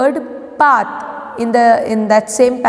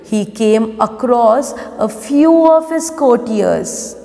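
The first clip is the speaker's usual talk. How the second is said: story read-aloud. Acted. Teacher reading the lesson for pupils to follow, measured read-aloud. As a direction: read it out word by word for children.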